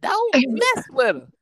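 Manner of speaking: high, loud, slow shouted announcement; retold guard shout. Guard calls out to the whole pod, high and loud. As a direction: call it out across the unit.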